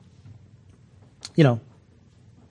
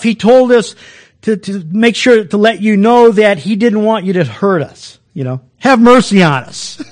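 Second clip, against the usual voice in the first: casual pleading brothers; 3 semitones higher, 3 dB louder than usual. Retold or imitated. Brothers sheepishly ask Joseph for mercy, mildly acted. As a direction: play the sheepish brothers buttering Joseph up, a touch hammed.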